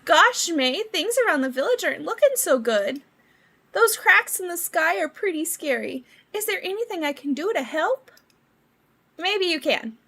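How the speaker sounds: a hint of a worried game character; lightly voiced game dialogue. Character worried about cracks in the sky, lightly voiced.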